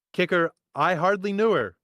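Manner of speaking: punchline in a silly put-on voice; goofy joke voice. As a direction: pun delivered in a cartoonish voice.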